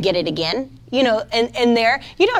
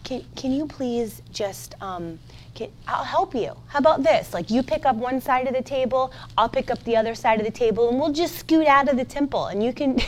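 soft, hesitant offer to help; hushed, apologetic suggestion; mock-meek politeness; 6 dB quieter than usual. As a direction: imitate a timid, accommodating pushover. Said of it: "even talk like this".

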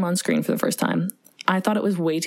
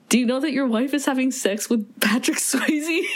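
laughing quote; 6 semitones higher than usual. Retold or imitated. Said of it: "And says".

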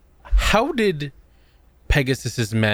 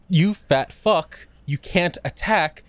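mock angry rant; 6 semitones higher than usual. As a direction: yell at the cheating duelist. Angry rant at card game.

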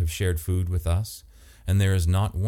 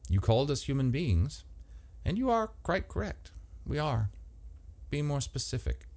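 lightly voiced stranger, higher and softer; a hint of an uncanny, courteous host; Andrew, calm and formal; 7 semitones higher, 5 dB quieter than usual. A narrator's reading. Andrew's voice in the story.

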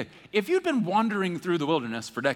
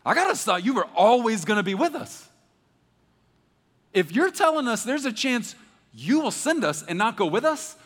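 much higher, louder alarmed protest; alarmed whoa; 7 semitones higher, 6 dB louder than usual. Retold or imitated. Moses protesting to God he might go alone, alarmed. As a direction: stop God cold, shocked at the idea.

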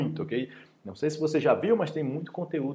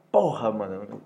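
fed-up complaint; 4 dB louder, slower than usual. Acted. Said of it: "eu tô indignado, eu tô com raiva".

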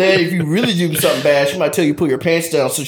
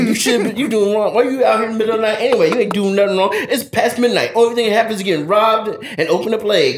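scolding mama; 5 semitones higher, faster than usual. Retold or imitated. Angry mama scolding in story.

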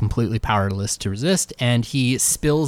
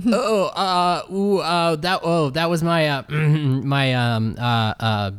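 flustered stammering; 2 semitones higher, slower than usual. Acted. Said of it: "He's like".

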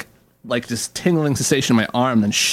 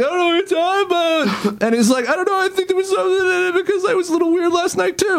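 high whiny imitation of the friend; mock whiny friend. Mocking the friend's denial at work, in a high whiny voice. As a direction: squeak out the denial like a cornered kid.

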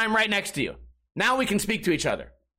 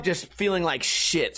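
normal talking voice

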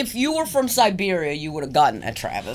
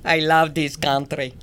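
lower, hammed-up Russian voice; Russian accent; 3 semitones lower than usual. Co-host playing the naked passenger, Russian accent. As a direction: declare it with a thick mock Russian accent. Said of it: "That was so Russian".

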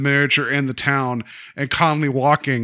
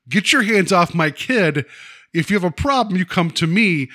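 mildly indignant retold warning, pitched up; protective mother; 4 semitones higher than usual. Mother warns the mayor off her kid, mildly indignant. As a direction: act out a mother warning someone off.

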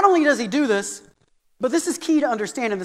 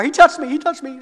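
whining tattler; 3 semitones higher, 4 dB louder than usual. Retold or imitated. Child tattling in the car, whining. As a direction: mimic a kid whining from the back seat.

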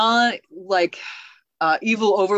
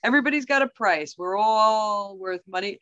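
evil overlord Daniel; 5 semitones higher than usual. Retold or imitated. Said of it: "He's like".

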